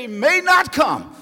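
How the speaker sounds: loud preaching cry, peaking on oh; rising old saying. Retold or imitated. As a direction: belt out the old folks' saying. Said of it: "The old folks used to say".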